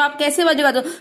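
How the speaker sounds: mock sob sounds for the class; teacher shows pupils the sound of long crying, mock sob; demo crying. Shown as a demonstration. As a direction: show the kids how crying sounds, half-laughing. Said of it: "जब आप बहुत देर तक रोते हो".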